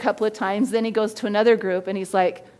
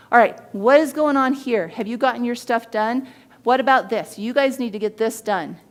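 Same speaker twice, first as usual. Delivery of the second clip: imitating a brusque boss; 3 dB louder than usual. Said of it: "he'd talk to him like this".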